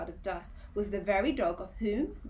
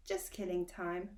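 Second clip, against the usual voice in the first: apologetic; 2 semitones lower, 5 dB quieter than usual. Acted. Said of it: "replied Milo apologetically".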